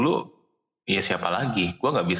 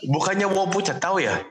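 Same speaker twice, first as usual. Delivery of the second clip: laughing; 11 semitones higher than usual. Real, not acted. Laughing guess at Mandarin phrase.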